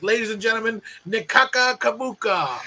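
mock emcee announcement. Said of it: "this is how he announced me".

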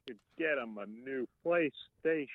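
lightly voiced Warburton; a hint of a deadpan uncle; Patrick Warburton impression. Shown as a demonstration. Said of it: "here's my Patrick Warburton".

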